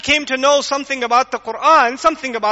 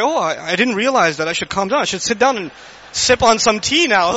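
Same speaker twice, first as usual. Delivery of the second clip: sarcastic mock reply. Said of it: "you say".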